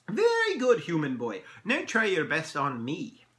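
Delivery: high, loud opening praise; pleased elf. Acted. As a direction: praise grandly, then slow into a challenge. Elf praises, challenges the boy.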